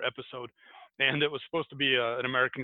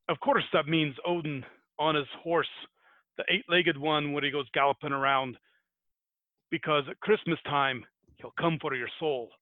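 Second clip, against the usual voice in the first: lightly put-on Scottish accent; a hint of amateur Scottish; attempted Scottish accent. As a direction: explain it in a loose Scottish lilt. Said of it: "I'm gonna give this a shot".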